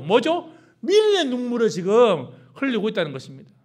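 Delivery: high, loud, fiery pulpit delivery; preaching at full force. Acted. Preacher rebuking the congregation over grumbling tears, fiery and loud. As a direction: thunder it at the congregation.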